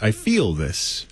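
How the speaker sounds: flat, slow, no emotion; deadpan. Shown as a demonstration. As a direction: say it dead flat. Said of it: "He says in a deadpan voice".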